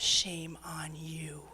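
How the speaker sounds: slow, hushed shaming; slow stern whispered scold. Retold or imitated. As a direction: whisper it slowly, inches away. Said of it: "She goes".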